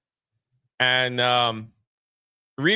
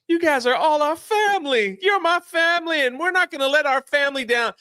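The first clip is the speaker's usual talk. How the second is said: speech; 11 semitones higher than usual. Retold or imitated. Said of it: "she basically gives a speech".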